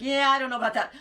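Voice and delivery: put-on laughing as she tells the old man no; laughing doubt. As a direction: brush it off through laughter. Her laughing reply to Ibrahim.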